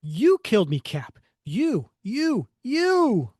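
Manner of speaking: loud accusation climbing to a high wail; accusing ghost. Acted. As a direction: wail the blame at your partner. Voices Bucky's accusing ghost.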